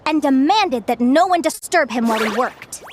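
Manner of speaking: measured fairy-tale telling; storyteller narration. A narrator's reading. Storyteller telling children of the governor and tailor, measured narration. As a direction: tell it like a folk tale, phrase by phrase.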